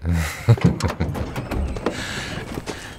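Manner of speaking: short laugh. Real, not acted. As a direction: laugh under the breath at the joke. Laughs at the uncle joke.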